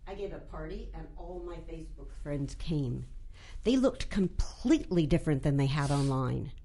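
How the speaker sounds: a measured, deadpan read of her own short story. Acted. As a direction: read it like an author at a reading, dry and wry. Reads her short story aloud.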